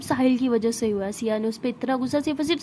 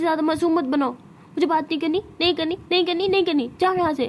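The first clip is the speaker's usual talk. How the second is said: higher-pitched, insistent rebuff; annoyed refusal; 4 semitones higher than usual. Acted. Tara refusing Siya's pleas to talk, annoyed. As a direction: refuse over and over, irritated.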